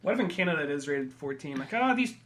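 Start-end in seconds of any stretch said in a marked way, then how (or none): 1.7-2.1 lightly put-on Canadian accent; a hint of a polite Canadian accent. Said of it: "stereotypical Canadian accent".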